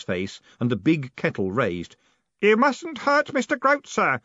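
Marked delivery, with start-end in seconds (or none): 2.4-4.2 high, slow, strained insistence; hoarse boy. A narrator's reading. Glazed-eyed Stanley threatening Moist with kettle, hoarse. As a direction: warn him in a high, stiff voice. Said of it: "he said hoarsely".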